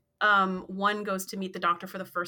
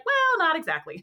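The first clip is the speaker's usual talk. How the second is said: a quote that breaks into laughter, pitched up; laughing Neelix line; 8 semitones higher than usual. Retold or imitated. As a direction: get the words out while laughing.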